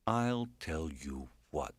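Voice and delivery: milk of human kindness. Acted. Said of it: "his milk of human kindness intonation".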